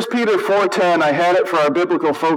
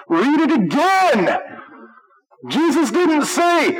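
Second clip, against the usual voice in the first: emphatic rebuke; 9 semitones higher, slower than usual. Real, not acted. Preacher rebukes angry man's reading.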